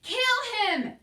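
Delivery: high, loud shouted command; shouting. A narrator's reading. Cook shouts at Mig to kill the mouse. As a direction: bark the order. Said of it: "shouted Cook".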